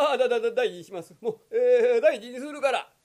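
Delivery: fast, stammering promise; frightened stammer. Acted. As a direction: blurt it out in fear. (怯えてどもりながら約束)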